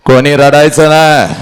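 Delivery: firm, projected command; forceful father. Acted. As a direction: order the mourners to stop. Father's order repeated forcefully.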